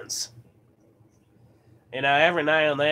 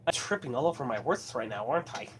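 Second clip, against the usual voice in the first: talking with a slight lisp; 3 semitones lower, 8 dB quieter than usual. Real, not acted. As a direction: trip over the words, lisping a little. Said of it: "Almost sounds like I got a lisp".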